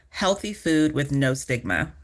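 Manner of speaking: usual speaking voice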